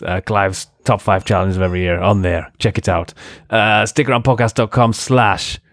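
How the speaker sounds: wobbly, badly faked French accent; attempted French accent. Host plugging the podcast website in a shaky French accent. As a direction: attempt a French accent and drift into some other foreign one. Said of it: "I just went into some other accent".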